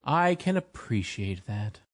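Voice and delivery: sympathetic. A narrator's reading. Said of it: "said the Tin Woodman sympathetically".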